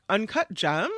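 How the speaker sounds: UNCUT GEMS lifted at the end like a question; imitated inflection. Shown as a demonstration. Quoting a viral clip, GEMS in rising inflection. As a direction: let GEMS tip upward, questioning. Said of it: "in the same inflection".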